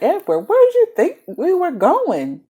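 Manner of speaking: high, loud, slow mocking question; mock exasperated. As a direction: throw his question back at him, hammed-up. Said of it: "I'm like".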